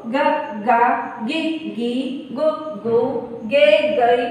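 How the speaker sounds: slow, syllable by syllable drill; barakhadi recitation. Shown as a demonstration. Teacher reciting the g syllables for students. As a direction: say each g syllable apart and clearly. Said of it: "तो ये मैंने पढ़ी इस तरह से".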